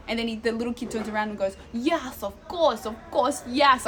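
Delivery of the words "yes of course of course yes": lightly voiced sassy kid mimicking an accent; mocking mimicry. Little Italian kid mocking a tourist's accent, lightly mimicked. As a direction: parrot it back with growing volume. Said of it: "trying to mimic my accent".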